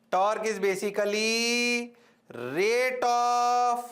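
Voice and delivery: very slow, word by word; slow emphatic definition. Shown as a demonstration. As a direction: spell out the definition slowly so it sinks in. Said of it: "teacher stresses key definition". (धीरे-धीरे, हर शब्द पर ज़ोर)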